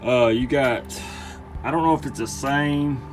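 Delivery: talking while lying on his back; strained voice from under the truck; lying under a car. Real, not acted. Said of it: "I'm under the truck".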